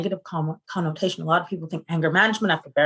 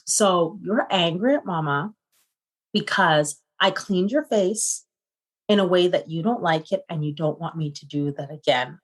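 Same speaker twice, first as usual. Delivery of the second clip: 1 calm mom reassurance. Retold or imitated. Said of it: "I said".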